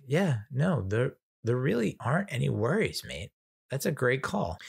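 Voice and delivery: put-on light Australian accent, pitch up a bit; casual Aussie mate, lightly imitated. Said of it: "had an Australian accent".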